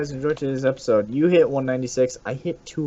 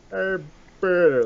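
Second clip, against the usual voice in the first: Joe Swanson impression; 6 semitones higher than usual. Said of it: "That's the only thing I can do".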